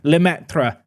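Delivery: Lemaitre said the French way, slowly; a quick, self-conscious French accent on Lemaitre. Shown as a demonstration. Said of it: "was that a good French accent?".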